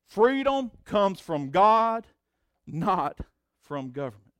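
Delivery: "Freedom comes from God" rung out high and loud, then "not from government" drops; proclaimed emphasis. Shown as a demonstration. Pastor restating his key line to the church, emphatic. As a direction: declare the first half, let the second fall. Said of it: "I got that up there".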